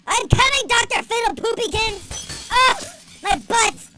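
high, loud, mock-heroic holler; hammed-up call. Player charging to the mad scientist, hammed-up call. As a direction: call out grandly in a silly high voice.

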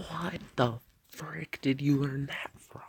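high, drawn-out mock outrage; imitated shocked mom. Streamer imitating a mom questioning her kid, mock shock. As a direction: play a scandalized mother, slowly stretching the question. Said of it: "their moms would be like".

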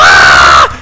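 loud scream of fright; terrified scream. Acted. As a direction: scream in sudden terror. Scream at the Hulk.

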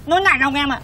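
"nại lòng" with slurred, muddled consonants; lisping complaint. Acted. Bullied man complains to his protector about "nại lòng", lisping. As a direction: whine "nại lòng" with a tongue-tied lisp. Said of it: "thằng ngọng nghíu ngọng nô này".

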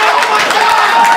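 very high, drawn-out squeal; hammed-up high-pitched amazement; mock shock. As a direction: stretch it out high and loud. Acting out a shocked reaction.

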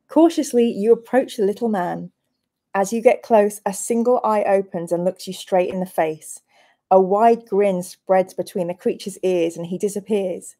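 storyteller reading an adventure aloud; lightly dramatic story reading; gamebook narration. Acted. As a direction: narrate the quest to the players.

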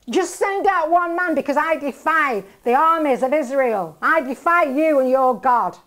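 loud, booming defiance of Israel's armies; defiant challenge. Retold or imitated. Goliath to the armies of Israel, a loud defiant challenge. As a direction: bellow the challenge across the valley.

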